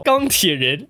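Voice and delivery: ordinary talk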